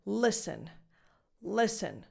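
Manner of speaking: "listen" as "liss-un", no T; silent T. Shown as a demonstration. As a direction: stress the first syllable of "listen" and leave the T silent. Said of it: "in this word is silent".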